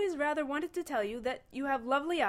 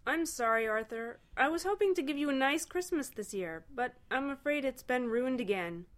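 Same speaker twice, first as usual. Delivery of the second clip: higher-pitched, regretful character voice; sighing apology; 7 semitones higher than usual. A narrator's reading. Ford apologises to Arthur for ruined Christmas, regretful. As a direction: apologise with a disappointed sigh. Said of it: "Ford sighed".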